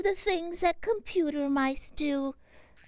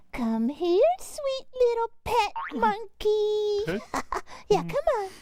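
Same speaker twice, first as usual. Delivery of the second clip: cooing to a pet; 3 semitones higher than usual. Acted. Cooing to new pet monkey.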